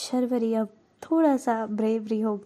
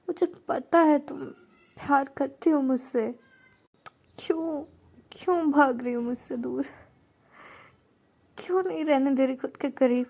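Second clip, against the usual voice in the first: tearful pleading; 4 semitones higher than usual. Acted. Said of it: "आंखों में भी आंसू आ जाते हैं".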